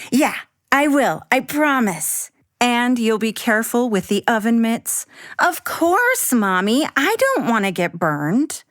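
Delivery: put-on a little girl making her case; Abby as child. Abby convincing her mom, lightly voiced child.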